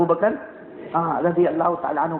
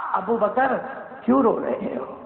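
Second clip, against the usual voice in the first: the Prophet's gentle question; 3 semitones higher than usual. Acted. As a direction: ask gently, lightly voiced. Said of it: "اور کیا فرمایا؟".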